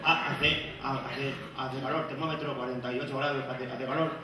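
halting, faltering live report; heat-struck reporter. Acted. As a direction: stammer as if wilting in the heat. Reporter struggling in extreme heat.

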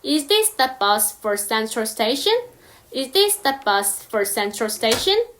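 Is this the bus, spoken very slowly; careful teacher read; slow demo; slow example. Shown as a demonstration. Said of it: "예문을 한번 들어볼게요".

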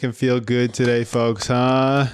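high, bright announcer hype; game show host. Pretend. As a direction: whip up the crowd like a host. Fake host hyping applause.

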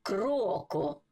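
slow, separated KRO-KO for "кроко"; syllable by syllable. Shown as a demonstration. Teacher joining two syllables for learners, syllable by syllable. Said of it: "як ми читали по складах".

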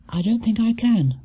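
high, mildly gasping bear; a light gasp of discomfort. A narrator's reading. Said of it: "gasped Paddington as he lay back".

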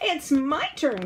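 high, loud, drawn-out protest; child crying out. A narrator's reading. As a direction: cry out like a squabbling child, in storyteller style. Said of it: "cried one".

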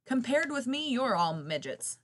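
loud, high call from above; distant giraffe voice. Acted. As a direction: call it down from treetop height. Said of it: "came from a distance".

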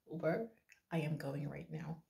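whispering so the neighbours won't hear; soft early-morning whisper; hushed whisper. Real, not acted. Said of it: "why are you whispering".

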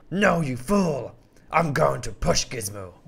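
slow scornful villain lion; lion mocks the hero's hope. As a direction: sneer at the hero.

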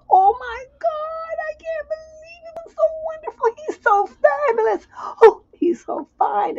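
ecstatic swoon. Retold or imitated. Lover gushing after first night, very high and ecstatic. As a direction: swoon over the night before.

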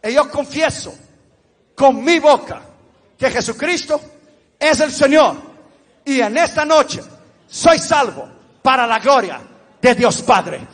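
measured phrases with pauses to repeat; solemn, deliberate prayer in short pieces; leading sinner's prayer. Real, not acted. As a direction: lead the congregation phrase by phrase. Leads repeat-after-me prayer.

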